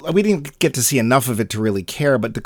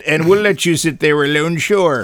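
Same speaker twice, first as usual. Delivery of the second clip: sarcastic; 4 semitones higher, 4 dB louder than usual. Retold or imitated. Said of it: "It's like".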